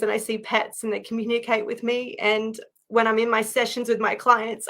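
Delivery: choked up, close to crying as she tells it; real tearful voice. Real, not acted. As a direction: speak through real tears of relief. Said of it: "I'm gonna cry sharing this".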